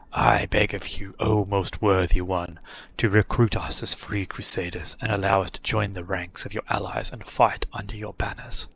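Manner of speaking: slow, low grand oration; solemn treant pleading, drawn out; talking tree. Acted. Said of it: "ends his oration on a grand note".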